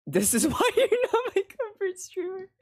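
high, laughing through the chat line; giggly high-pitched reading. Real, not acted. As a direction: read it while cracking up. Reads chat while laughing.

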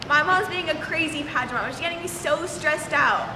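put-on low Southern-accented complaint. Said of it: "You have to sound Southern".

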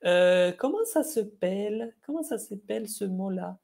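puzzled French speaker. Retold or imitated. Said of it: "los franceses a veces dicen".

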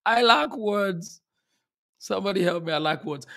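lost for words, halting; overcome with emotion. Real, not acted. Host to audience after a moving talk, overcome with emotion. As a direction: stammer out helplessly, moved by the talk. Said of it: "don't let me get too emotional here".

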